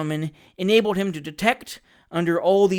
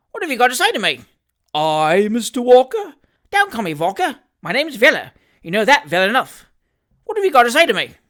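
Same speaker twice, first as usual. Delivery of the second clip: loud, higher, fast menacing demand; threatening demand; 6 semitones higher, 7 dB louder, faster than usual. Acted. Sam threatens Trotter for an answer, menacing demand. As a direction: press him hard, fists ready.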